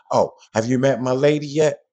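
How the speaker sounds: easy friendly guy introducing his lady; casual man's intro. Pretend. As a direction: show off your lady casually. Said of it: "This is how men talk".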